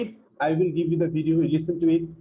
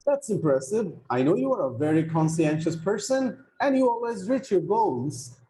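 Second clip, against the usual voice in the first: dialogue read aloud; 3 semitones higher than usual. Shown as a demonstration. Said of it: "So let me read that dialogue".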